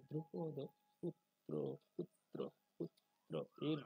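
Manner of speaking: দ্রুপদ পুত্র, পুত্রয়েন in separated syllables; Sanskrit pronunciation. Shown as a demonstration. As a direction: break পুত্র after put, then hold পুত্রয়েন. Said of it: "সংস্কৃত উচ্চারণ". (দ্রুপদ পুত্রয়েন ভেঙে সংস্কৃত উচ্চারণে)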